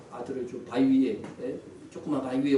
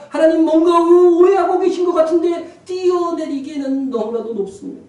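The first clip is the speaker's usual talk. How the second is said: flustered shout; 12 dB louder than usual. A narrator's reading. Man on the branch protesting to God, flustered shout. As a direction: shout upward in bewilderment. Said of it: "난감한 마음으로 외쳤습니다".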